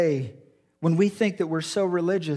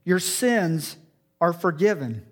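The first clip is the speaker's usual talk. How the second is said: gentle and intimate. Shown as a demonstration. Jesus to the paralyzed man, tender and fatherly. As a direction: say "Your sins are forgiven" like a father to a son. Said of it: "And he says to him".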